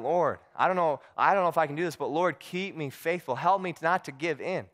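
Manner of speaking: lightly acted desperate praying; pleading prayer. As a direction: imitate a man begging God for strength. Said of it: "he's praying the whole time".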